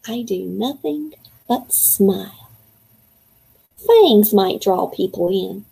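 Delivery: put-on reading a kid's diary aloud to young listeners; storybook read-aloud voice; story narration. A narrator's reading. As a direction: read it as the boy writing his diary. Reads chapter as boy narrator.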